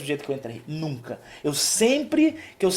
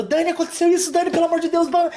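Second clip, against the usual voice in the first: much higher, louder, rushing mock panic; imitating panicked wife; 12 semitones higher, 4 dB louder, faster than usual. Husband imitating his anxious wife rushing to him, higher and louder. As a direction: play the frantic wife pleading with her husband. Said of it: "E ela chega pra mim contando".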